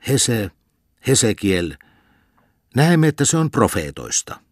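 a drowsy mock sermon; dreaming cantor preaching. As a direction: preach like a village cantor leafing for Habakkuk. Dozing man dreams lukkari preaching.

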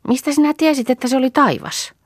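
a little one wondering aloud; young sister asks how she knew it was heaven; curious child. Acted. Young sister questions the dream.

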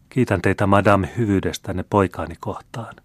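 composed, dignified thanks; calm and dignified. Acted. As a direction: speak with calm noble dignity. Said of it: "virkkoi Kreivitar tyynen arvokkaasti".

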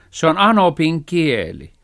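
high, loud indignant cat; cat yelling at the cow; cat shouting. A narrator's reading. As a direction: shout the correction. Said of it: "huusi kissa".

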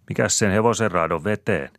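high, loud indignant question. A narrator's reading. Saara shoots back at her father, indignant. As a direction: snap back at him. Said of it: "kysäisee Saara".

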